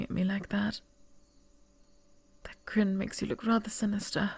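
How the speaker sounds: a tense royal heir in a hushed whisper; hushed princess. Acted. Princess whispering to a scheming stranger, hushed and uneasy. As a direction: breathe it like a secret in the castle.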